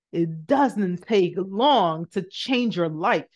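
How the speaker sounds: earnest preaching. Real, not acted. Preaching to viewers.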